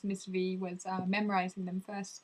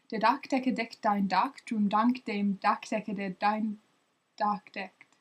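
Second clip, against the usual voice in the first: quicker run at the tongue twister; faster. Shown as a demonstration. Retrying the tongue twister for viewers, a bit faster. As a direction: push the pace and keep going. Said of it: "I'll try and go faster".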